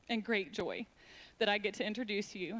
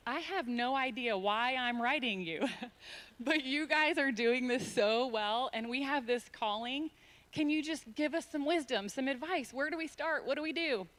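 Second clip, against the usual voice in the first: mock professional email voice; 3 semitones higher than usual. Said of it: "a very professional email that sounded something like".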